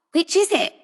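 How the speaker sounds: sharp, impatient question; exasperated. A narrator's reading. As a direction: ask it fed up and exasperated.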